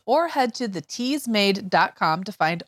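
scripted closing plug; podcast promo read. Acted. Host telling listeners where to find podcast, promo read. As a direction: direct listeners to the show.

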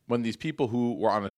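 talking around a cough drop; mouth full. Real, not acted. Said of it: "I have a cough drop in my mouth".

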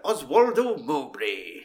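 slow, drawn-out posh British announcement of a name; chirpy little posh Englishman impression; posh peppy Brit. Film fan mimicking the posh hangman introducing himself, posh and peppy. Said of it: "posh little peppy British man".

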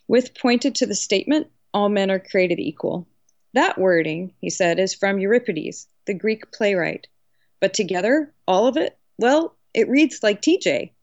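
measured storytelling with lightly acted dialogue; story narration. A narrator's reading. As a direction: read the novel passage aloud with measured pauses. Author reads novel passage aloud.

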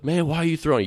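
high, indignant mock shout; imitating an angry hitter's yell; retold yell. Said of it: "He yells out to me".

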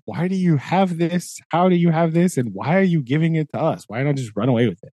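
mock bewilderment, easing off by the end; amazed. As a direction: imitate baffled listeners firing questions. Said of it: "like, the amazement".

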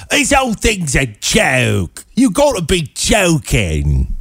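high, slow mock British accent; fake British accent. Host mocking the singer's put-on voice, fake British accent. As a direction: stretch it out in a hammed-up fake British. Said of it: "that, that kind of fake British accent".

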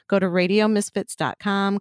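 usual speaking voice

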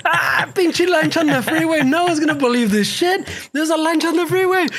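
cracking up. Retold or imitated. Driver joking to himself about the boat, cracking up. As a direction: act out laughing at your own joke. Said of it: "cagándome risa".

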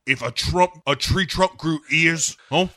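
high, loud, insistent plea; Bond yelling. Acted. Bond drawing Madeline's eyes to his own, yelled. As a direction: raise your voice to distract her. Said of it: "Bond starts screaming".

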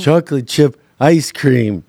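mocking, slowed politician impression; lightly mocked slow speaker; Joe Biden. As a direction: draw it out in a put-on voice. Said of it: "between Joe Biden".

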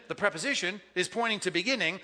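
normal talking voice

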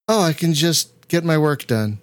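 giggling through a happy sigh; breaking into a laugh on nice. Retold or imitated. Quoting her relaxed Friday self.

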